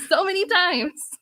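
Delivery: giggling emphasis on so many; laughing. Retold or imitated. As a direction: savor it through a laugh. Laughing repeat of her quote.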